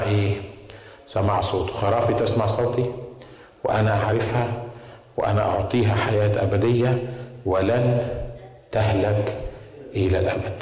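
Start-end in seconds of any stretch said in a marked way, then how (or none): 1.7-10.6 measured, lower-pitched verse recital; scripture recitation. Acted. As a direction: recite the verse phrase by phrase, with pauses. (تلاوة آية بهدوء وعلى مهل)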